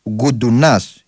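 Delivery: Γκουντουνάς, accent landing on the end; Γκουντουνάς stressed on last syllable. Real, not acted. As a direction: stress the final -νάς of Γκουντουνάς. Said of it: "ή Γκούντουνας, τέλος πάντων".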